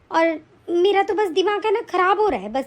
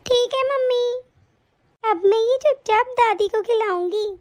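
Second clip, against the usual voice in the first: put-on little girl voice; 4 semitones higher than usual. Child speaks.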